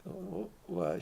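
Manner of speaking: sudden high squeak of disbelief; mock-shocked "what?"; startled. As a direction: jump up in pitch like caught off guard. Startled reaction voiced in story.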